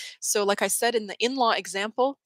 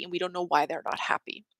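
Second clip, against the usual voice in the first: a sudden hushed whisper, no voice; 2 semitones lower, 4 dB quieter than usual. Acted. To her audience, echoing the line as a whisper. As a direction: drop to a secret whisper on the repeat.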